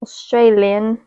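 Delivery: trying out an Australian accent on one word; slow Aussie "Australian". Shown as a demonstration. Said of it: "I wanna be Australian".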